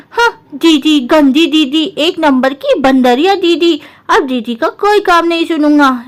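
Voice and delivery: lightly voiced boy grumbling about sister; mild sulk of a kid brother; sulky little brother.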